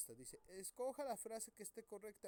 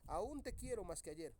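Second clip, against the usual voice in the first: Aún te quiero más que ayer said in one breath with no pause; read straight through. Shown as a demonstration. Teacher reading the unpunctuated sentence straight through. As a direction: run the whole line together without stopping. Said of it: "lo dice de corrido".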